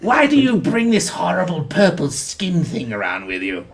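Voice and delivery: lightly sneering posh British question; a hint of snobbish British disdain. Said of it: "Ragnar has a posh British accent".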